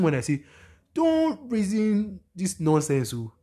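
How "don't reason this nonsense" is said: slow, high and loud telling-off; emphatic scolding. Real, not acted. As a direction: drag each word out to scold. Scolding the audience's thinking.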